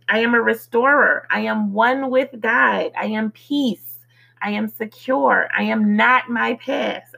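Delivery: measured, evenly spaced affirmations; affirmation recital. Real, not acted. Reciting a list of "I am" declarations to listeners, affirmation recital. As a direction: recite each declaration as its own complete statement.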